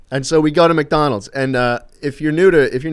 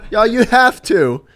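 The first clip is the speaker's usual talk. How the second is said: higher, louder, slower Australian insistence; Australian accent; 10 semitones higher, 7 dB louder, slower than usual. Retold or imitated. Friend pushing food on him, imitated Australian accent. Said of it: "in his Australian accent".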